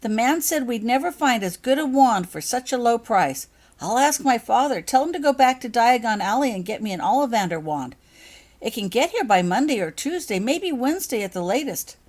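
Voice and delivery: loud, high pleading, close to tears; distraught. A narrator's reading. Becky pleads with her friends, loud and upset. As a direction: beg to be believed, words tumbling.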